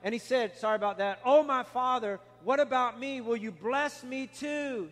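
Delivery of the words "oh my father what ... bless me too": mildly acted plea to a father; plead, slowing down on the final question; begging. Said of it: "he begged".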